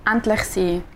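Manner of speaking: podcast intro in Swiss German. Shown as a demonstration. Host demonstrates her podcast intro on request, in Swiss German. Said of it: "Du machst das auf Schweizerdeutsch".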